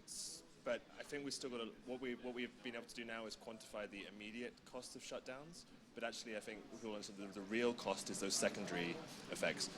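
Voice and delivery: soft, close to the mic; hushed, right in your ear; whispering into the mic. Real, not acted. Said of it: "So I'm gonna whisper into the microphone".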